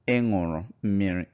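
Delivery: "Ị ṅụrụ mmiri" als mededeling, met vallende toon; Igbo statement tone. Shown as a demonstration. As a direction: zeg het als feit: "Ị ṅụrụ mmiri". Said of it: "You drank water".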